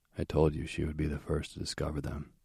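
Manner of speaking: plain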